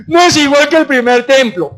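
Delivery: high, put-on lament; mock the crying elders' complaint; acted tearful protest; imitated weeping. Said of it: "Estaban llorando, diciendo".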